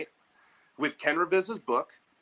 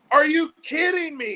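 much higher, louder, laughing; laughing disbelief; 12 semitones higher, 6 dB louder than usual. Retold or imitated. Mocking the coach's curveball rule, laughing loud disbelief. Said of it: "I'm like".

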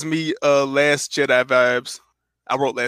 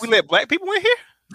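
mock surprise; 11 semitones higher than usual. Acts out Alfred's surprised line.

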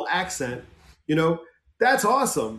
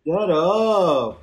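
a light mock Chicano "Shut up."; Chicano accent; 3 semitones higher, 3 dB louder than usual. Co-host imitating the Chicano accent for laughs, lightly. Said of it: "You've got it down good".

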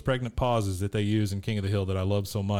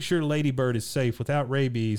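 imitating Luann praying; 3 semitones higher than usual. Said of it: "she's obviously praying".

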